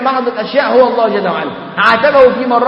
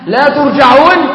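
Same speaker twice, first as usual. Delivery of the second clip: slow and louder, leaning on each word; solemn raised warning; emphatic recitation; 3 semitones higher, 5 dB louder, slower than usual. Acted. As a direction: drive the verse home slowly. Climax of a Quran quote.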